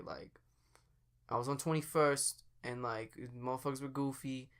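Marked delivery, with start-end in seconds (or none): 1.3-4.5 lightly imitated Chicago street accent; a hint of Chicago thug talk; half-hearted imitation of Chicago street speech. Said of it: "like, thug type talk. So you'd say".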